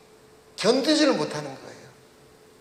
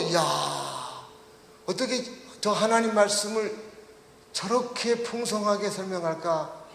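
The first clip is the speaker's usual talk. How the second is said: acted amazement; 2 semitones higher, 4 dB quieter than usual. Preacher voicing synagogue crowd hearing Jesus teach, amazed. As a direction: voice an onlooker's wonder, stretching it out. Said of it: "할 정도로 깜짝 놀랐다가".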